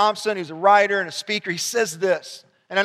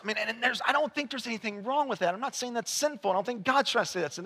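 much softer, intimate pastoral tone; soft reflective preaching; 5 dB quieter than usual. Acted. Pastor gently closing his sermon to the church, soft and intimate. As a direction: draw them in with a quiet voice.

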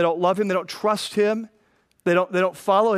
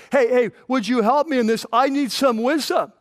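pleading for help; 5 semitones higher than usual. Retold or imitated. Churchgoer begging pastor for wisdom, higher mock plea. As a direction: play the desperate caller. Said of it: "we call our pastor or whatever and say".

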